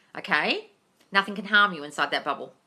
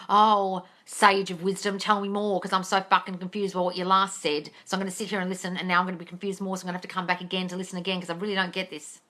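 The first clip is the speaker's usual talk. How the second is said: mocking devotee. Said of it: "sage of wonderful wisdom".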